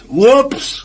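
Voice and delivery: high, rising startled yelp; sudden high-pitched oops; startled whoops. Acted. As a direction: squeak it out in surprise. Clumsy man's startled exclamation.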